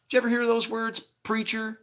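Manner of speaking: loud, high, indignant rant; angry preaching. Real, not acted. Speaker condemning hypocritical preachers in a loud, high rant. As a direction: rail at the preacher with fire.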